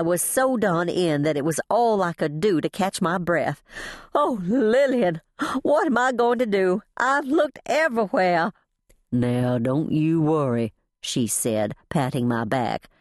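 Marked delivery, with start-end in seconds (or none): 4.1-8.5 high, anguished lament; despairing, pitched-up cry; distraught pleading. A narrator's reading. Distraught narrator character pleads for help. 9.1-10.7 slow, gentle comforting; calm someone who is upset; lightly voiced folksy comfort; soothing reassurance. A narrator's reading. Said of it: "she crooned".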